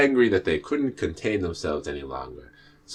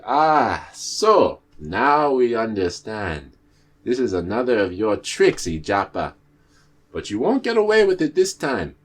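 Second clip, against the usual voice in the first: accusing birds; 3 semitones higher, 5 dB louder than usual. Acted. Birds exposing the tortoise's trick, loud and accusing. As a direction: catch the trickster out, loudly.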